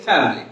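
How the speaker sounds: family as fam-lee in the sentence; contracted pronunciation. Shown as a demonstration. Teacher using the word in a sentence, family as fam-lee. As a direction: drop the middle i of family. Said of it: "make a sentence from the word".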